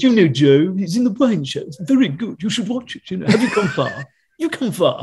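mock prince making introductions, amused; Prince Charles impression. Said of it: "And he would introduce you".

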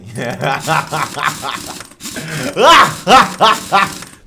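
loud, high cackling villain laugh; evil laugh. Pretend. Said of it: "Tô tentando fazer aquela, aquela ris-, risada maligna".

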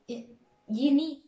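very slow broken syllables. Shown as a demonstration. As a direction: spell the ending out slowly. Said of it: "بس أنا بقولها لك كده".

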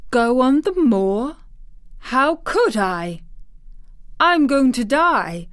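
high, loud, drawn-out disbelief; startled. A narrator's reading. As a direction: exclaim it, startled and indignant. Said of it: "as if he were startled".

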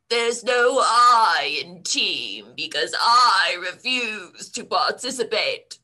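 put-on slow, grumbling old man; grumpy old man. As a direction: sound like a cranky grandpa. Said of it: "the accent is grumpy old man".

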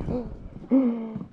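high-pitched mock gasp. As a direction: draw in a high, sudden breath. Mock surprise at dating question.

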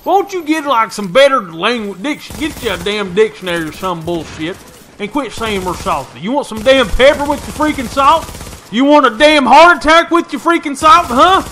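exaggerated heated rant; mock rant. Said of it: "I'm like".

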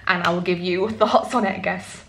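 slipping into a light British accent; a hint of a British accent, half by accident; unintended, light British accent; accidental British accent. Real, not acted. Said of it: "is that meant to be a British accent".

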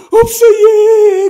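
put-on slow, high wailing sob of a small child; crying child. Little nephew answering his mother while crying, slow high sob. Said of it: "엉엉 울면서".

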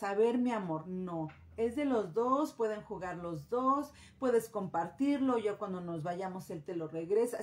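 put-on kneel down and soothe a toddler; gentle with a child. Shown as a demonstration. Mother explaining sharing to her little boy, gently.

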